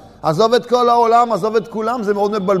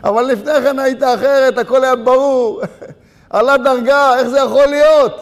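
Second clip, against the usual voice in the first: amused disbelief, pitched up and louder; laughing protest; 4 semitones higher, 4 dB louder than usual. Acted. Preacher answers the man who gave up, laughing incredulously. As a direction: protest through laughter, building at the end. Laughing after the acted despair.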